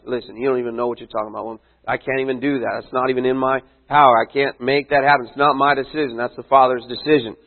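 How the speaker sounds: casual brush-off. Retold or imitated. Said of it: "And he's like".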